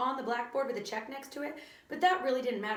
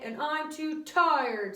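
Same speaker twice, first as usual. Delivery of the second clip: put-on 1 whiny kid; 5 semitones higher, 4 dB louder, much slower than usual. A narrator's reading. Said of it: "said Ron".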